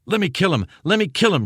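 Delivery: loud, high, frantic shout; narrated shout. A narrator's reading. Soldier Vest shouting to kill the prisoner, loud frantic shout. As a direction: bellow it, lunging to kill the prisoner. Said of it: "shouted Vest".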